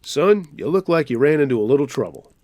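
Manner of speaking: lightly voiced Midwestern drawl; a hint of a Midwestern cop drawl. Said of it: "in that Midwestern drawl".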